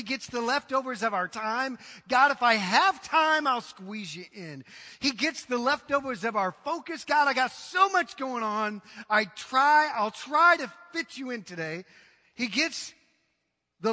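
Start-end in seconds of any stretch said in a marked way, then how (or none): 2.1-4.6 mock offhand believer. Mocking careless believer. 7.0-11.8 mock harried excuse. Mocking busy believer.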